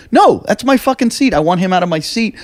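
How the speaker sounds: indignant demand to get his seat back; retelling how he yelled at the flight attendant; retold yelling. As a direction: pitch jumps high on the first line, then settles. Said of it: "And I'm yelling at the flight attendants".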